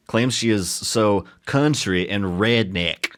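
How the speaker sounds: bad slow Southern country accent. Shown as a demonstration. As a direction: drawl it in a weak country accent. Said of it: "the worst country accent I have ever done".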